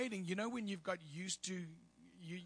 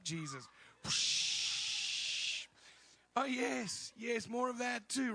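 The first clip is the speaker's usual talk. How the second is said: ministering prayer; slower than usual. Acted.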